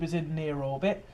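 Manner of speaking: words right around a burp. Real, not acted. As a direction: burp slipping out mid-sentence. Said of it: "Sorry, I burped".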